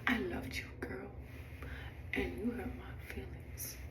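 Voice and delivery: soft retold admission of hurt; hurt confession. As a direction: confide it gently, dropping the volume. Retells confiding hurt to the passenger.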